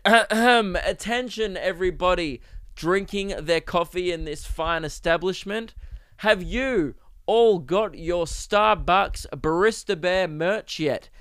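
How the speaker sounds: slow, drawn-out mock address to a room; mock public announcement. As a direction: pretend to call a whole café to attention. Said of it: "stood on a chair and said".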